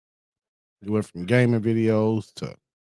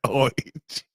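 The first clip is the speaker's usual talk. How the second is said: mock British letter H, pitched up; British accent; 4 semitones higher than usual. Streamer repeating the alphabet joke, mock British accent. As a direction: laughingly repeat a British "oitch". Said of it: "British people be like".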